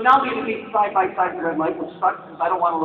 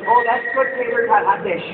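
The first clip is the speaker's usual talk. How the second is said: put-on Minnesota accent; 3 semitones higher than usual. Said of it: "Minnesota, they talk like this".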